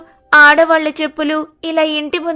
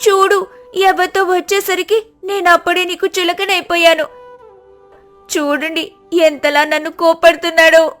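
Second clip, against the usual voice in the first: higher mock-crying complaint; 4 semitones higher than usual. Sita complaining to neighbours about her husband, mild mock crying. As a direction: whine to the crowd. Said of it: "మళ్ళీ ఏడుస్తూ".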